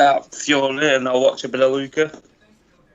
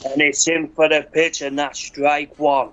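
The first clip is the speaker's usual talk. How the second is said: play-by-play call. Shown as a demonstration. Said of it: "can you just do a little preview of what, how you would call a game?".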